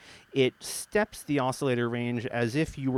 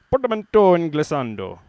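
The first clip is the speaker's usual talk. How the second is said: grand announcement; 3 semitones higher, 7 dB louder than usual. Shown as a demonstration. Grand announcement of both terms.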